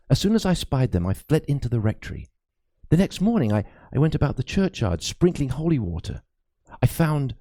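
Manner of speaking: lightly voiced anxious old priest; a worried cleric confiding a ghost story; frightened priest. Priest confides his fears to Crispin, lightly voiced and uneasy.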